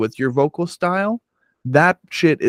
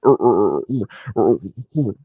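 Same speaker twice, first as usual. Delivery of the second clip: guttural grunts; imitating slam vocals with guttural ers; mock slam growl; 3 semitones lower than usual. Host mocking slam vocals, guttural grunting. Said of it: "Some of it is just like".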